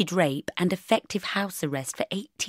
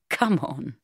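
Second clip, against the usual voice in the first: laughing; 4 semitones lower than usual. Acted. Mark to Bridget after the hairdryer story, laughing. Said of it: "he said, laughing".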